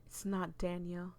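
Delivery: dramatic read-aloud of a creepy tale; eerie storytelling voice; story narration. Acted. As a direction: read it like a ghost story to the viewers.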